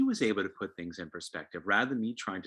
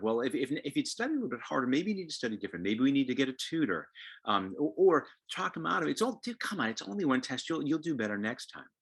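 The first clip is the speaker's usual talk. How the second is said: lightly voiced advice-giving parent; a hint of a parent fixing things; lecturing parent; 3 semitones higher than usual. Parent offering the upset kid quick fixes, lightly lecturing.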